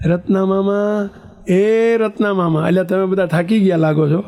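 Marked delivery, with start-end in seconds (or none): 0.1-2.7 slow, stretched call to uncle; drawn-out calling. Retold or imitated. Nephew calling his uncle outside the temple, stretched call. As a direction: call the name long across the courtyard. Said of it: "શું બૂમો પાડે પહેલાં?".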